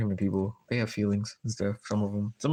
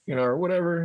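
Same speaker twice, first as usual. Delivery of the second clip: high, light and casual, much higher than usual; easygoing high voice, just hanging out; high breezy self-quote; 11 semitones higher than usual. Retold or imitated. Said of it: "And I'm like".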